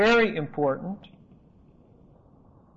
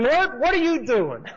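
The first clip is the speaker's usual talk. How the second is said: higher, louder protest as Peter; shocked Peter; 6 semitones higher, 4 dB louder than usual. Retold or imitated. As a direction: Peter recoiling in disbelief. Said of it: "Peter says to him".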